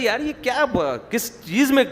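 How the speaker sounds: high-pitched exasperated grumble; retold anger. Father fed up with sticky bread, imitated annoyance. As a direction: complain in mock indignation. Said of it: "تو اتنا غصے میں آئے نا".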